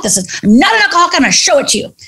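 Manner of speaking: high, fast denial; defiant insistence. Retold or imitated. Woman denying to her friend she's alcoholic, high and fast. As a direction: rush to prove you're fine.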